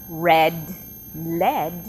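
red with a clear R, lead with a clear L; minimal pair demo. Shown as a demonstration. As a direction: contrast the R in red against the L in lead. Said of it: "If I would say".

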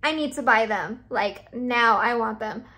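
mock insistent. Retelling trying on the shoes.

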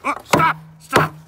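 high, loud panicked shout; alarmed cry. Acted. Narrator shouting at the reader to stop. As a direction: yell stop as if to save her.

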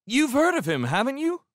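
put-on high, loud kid's voice; insistent kid. A narrator's reading. Embarrassed kid turning to Lewis, insistently.

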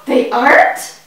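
high gasp of amazement; gasping surprise. Acted. Child learning bee colors, gasping high. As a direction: gasp at the news about bees. Gasps at news.

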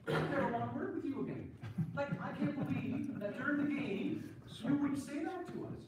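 retold outburst. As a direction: relive losing it at the partner. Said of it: "I just lost it".

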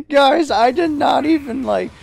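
high, loud disbelieving rant; excited. Real, not acted. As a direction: blurt it out in disbelief.

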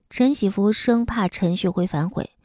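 plain reading voice

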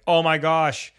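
injured player realizing how bad it is, mock shocked; shocked gasp. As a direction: blurt it out in dismay. Retelling tearing his glute.

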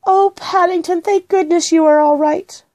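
high-pitched, heartfelt relief; relieved exclamation. A narrator's reading. Girl relieved bear is safe.

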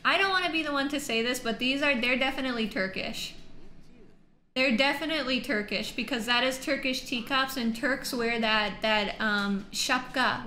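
loud, fast, thrilled rush of words; fast excited claim. Real, not acted. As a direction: blurt it out in excitement. Excited reaction to Turkish scene.

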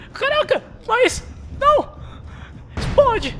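very high, loud panicked scream. Real, not acted. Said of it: "fico gritando igual uma menininha".

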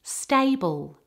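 "stable" with A as a gliding double vowel. Shown as a demonstration. Teacher has learners check the word, double-vowel A in "stable". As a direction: give both sounds of the A in "stable". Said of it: "with excellent stress and vowels".

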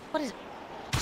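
breathy hushed what is it; puzzled whisper. Real, not acted. Gamer squints at the object and whispers. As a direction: whisper it, confused.

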